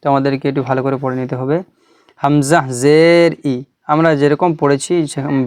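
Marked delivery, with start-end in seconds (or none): 2.2-3.6 measured spelling with জের held and ই short; no lengthening on final ই; unstretched ending. Shown as a demonstration. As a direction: recite হামজা জের, then a brief ই. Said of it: "বিনা টানে".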